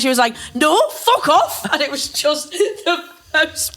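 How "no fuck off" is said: high, drawn-out mock outburst; losing the plot. Imitating Vicky seeing her ex, losing the plot. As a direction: imitate an outraged refusal, higher and slower. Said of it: "she just fucking lost the plot".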